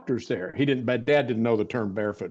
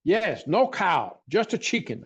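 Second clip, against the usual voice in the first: silly voice; 4 semitones higher than usual. Retold or imitated. Recalling the barefoot doctor at his bedside, in a higher silly voice. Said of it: "the silly voice I'm doing".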